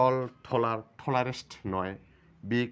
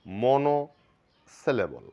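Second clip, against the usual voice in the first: মনোসিলেবল said very slowly and clearly; drawn-out term; 4 dB louder, much slower than usual. Shown as a demonstration. Teacher introducing the term to students, drawn out slowly. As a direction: stretch মনোসিলেবল out for the class. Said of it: "আমাদের আগে syllable জানা থাকতে হবে".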